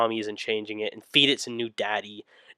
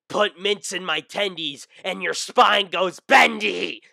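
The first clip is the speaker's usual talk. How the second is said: menacing rhyme; 8 semitones higher, slower than usual. Acted.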